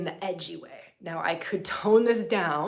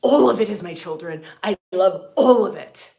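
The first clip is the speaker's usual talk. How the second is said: loud embracing goddess; 11 dB louder than usual. Retold or imitated. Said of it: "And she goes".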